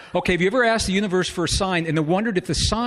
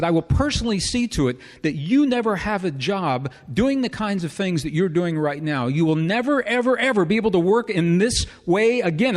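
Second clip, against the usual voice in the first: raised, louder imitating an angry boss; angry threat; 4 semitones higher, 3 dB louder than usual. Furious boss threatening to blackball him, raised voice. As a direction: build to a near shout on never ever. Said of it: "Now he's really, really upset".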